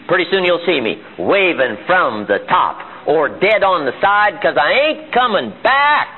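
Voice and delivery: acted do-or-die determination; defiant vow. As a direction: draw out the vow and lift the last words. Climber vows do or die.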